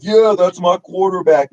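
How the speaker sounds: high-pitched, excited fan cheer; Mark Holmes, all excited. Retold or imitated. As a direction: imitate a sports fan getting all worked up. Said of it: "Mark Holmes got all excited".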